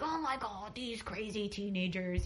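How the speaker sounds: tut-tutting like a grumpy adult; mock grown-up tut. Imitating an older woman clucking about teenagers. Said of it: "I would sound like".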